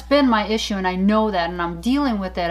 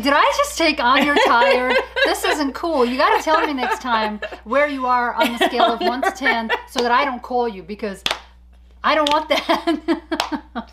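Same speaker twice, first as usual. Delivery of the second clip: half-laughing, a bit higher mock scolding; laughing complaint; 3 semitones higher than usual. Host retelling scolding her exhausted friend, laughing.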